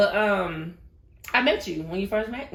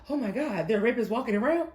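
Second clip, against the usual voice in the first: mock shocked question; 4 semitones higher, faster than usual. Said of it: "She was like".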